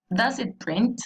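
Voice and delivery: "Does it print?" with the pitch rising toward print; rising question tune. Shown as a demonstration. Teacher modelling a rising question for the class. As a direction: end "Does it print?" on an upward lift. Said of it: "la entonación va hacia arriba".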